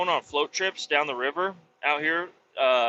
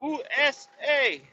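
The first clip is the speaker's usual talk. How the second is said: higher, slow, hammed-up Spanish-accented USA; mock Spanish accent; 11 semitones higher than usual. Podcaster repeating his bit, mock Spanish accent. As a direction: stretch it out in a fake Spanish accent. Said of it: "I think I was going for Spanish".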